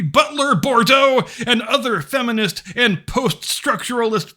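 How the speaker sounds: overwrought theatrical reading; hammy stage actor. Acted. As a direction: read it like a pompous stage actor. Mock-dramatic reading of thesis.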